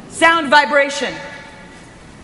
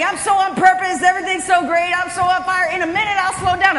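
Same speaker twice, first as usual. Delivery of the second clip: higher-pitched eager self-justifying; brisk insistence, pitched up; rationalizing; 4 semitones higher than usual. Retold or imitated. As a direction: play the excited mind making excuses. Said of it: "my mind was rationalizing".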